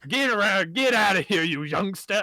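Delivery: a hint of a cranky old man yelling; grumpy old man shouting. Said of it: "starts shouting in a language that you don't recognize".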